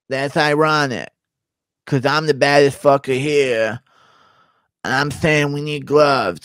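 lightly voiced tough fighter, indignant; a hint of a confused brawler; Diaz impression. Fighter balking at a contract, mild indignant drawl. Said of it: "Diaz trying to understand his B K F C contract impression".

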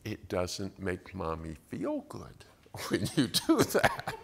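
whispered mom. Retold or imitated. Mom calmly tells toddler her feelings, whispered. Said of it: "she's like".

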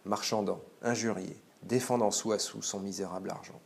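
clear, measured reading aloud of the story; expressive literary reading. Acted. Teacher reading a Maupassant passage to students, expressive. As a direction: read the passage to the class with feeling.

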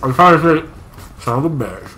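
talking while chewing; words round a bite of food; mouth full. Real, not acted. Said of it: "with a mouthful".

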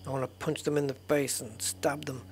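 whispered mock threat; hushed joking menace; whispered joke about hurting smugglers. Real, not acted. Muttered violent aside.

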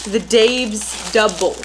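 each word spelled out slowly; slow careful repeat. Shown as a demonstration. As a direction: say it slowly like a tongue twister. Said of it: "It's hard to say?".

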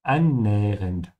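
Annähernd with a slight gap between the two n sounds; pause in annähernd. Shown as a demonstration. Teacher shows learners the pause between the two n's in Annähernd. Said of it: "add a slight pause between the two N's".

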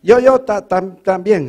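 stammering on the first syllables; stutterer imitation. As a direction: mimic the town stutterer tripping over words. Stutterer character speaking.

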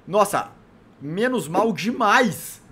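slow drawn-out relief; relieved sigh. Real, not acted. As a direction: stretch it out, relieved. Relief after near fall.

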